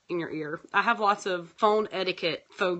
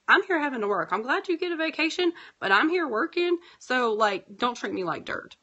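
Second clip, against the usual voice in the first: indignant; 5 semitones higher than usual. Retold or imitated. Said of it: "And I'm like".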